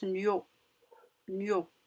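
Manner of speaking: "nio" slowly, gn joined to o; syllable demonstration. Shown as a demonstration. Teacher showing gn with O, "nio" repeated slowly and distinctly. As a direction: say "nio" twice, set apart. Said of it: "On le prononce".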